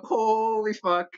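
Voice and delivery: high, slow, stunned curse; horrified realization, drawn out; jaw-dropped disbelief pitched high; shocked. Retold or imitated. Realizing mom caught him.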